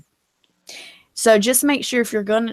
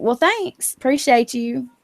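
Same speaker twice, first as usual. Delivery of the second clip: sarcastic thanks; 3 semitones higher, slower than usual. Retold or imitated. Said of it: "And I'm like".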